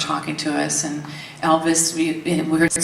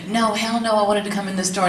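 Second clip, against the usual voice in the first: mock yell; 4 semitones higher, faster than usual. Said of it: "yelling at everybody".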